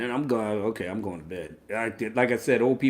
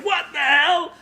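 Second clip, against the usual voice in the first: surprised; 11 semitones higher, slower than usual. Retold or imitated. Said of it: "I said".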